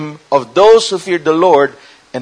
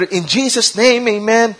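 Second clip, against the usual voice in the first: higher-pitched pious prayer ending; holy, reverent prayer; 5 semitones higher than usual. Acted. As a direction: close a mock prayer reverently. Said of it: "we're very holy and reverent".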